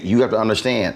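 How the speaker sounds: ordinary talk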